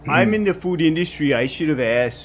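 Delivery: put-on apologetic Canadian accent; Canadian-accented food worker apologizing. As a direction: say "sorry" with a rounded Canadian vowel. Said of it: "I picked up your accent".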